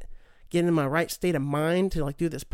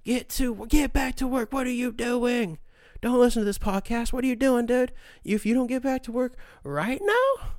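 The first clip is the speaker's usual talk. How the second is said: raised, hammed-up scolding voice barking orders; mock boss voice; 5 semitones higher than usual. Mock boss yelling at a slacking listener. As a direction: play a fake authority threatening a slacker.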